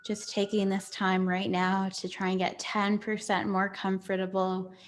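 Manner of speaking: guided meditation. Real, not acted. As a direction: settle gently into calm, with long pauses between phrases.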